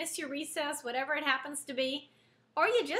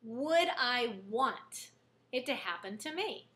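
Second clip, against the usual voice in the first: soft, slow self-questioning; slow quiet musing on "Would I want it to happen to me?"; quiet reflective question; 4 semitones lower, 4 dB quieter, slower than usual. Shown as a demonstration. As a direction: ask it gently, inward. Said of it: "I've learned to phrase that differently".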